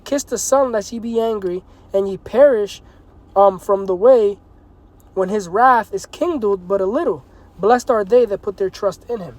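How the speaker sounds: measured preacher reading; scripture reading. Acted. Preacher finishing the psalm for his listeners, measured. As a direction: read the closing verse steadily.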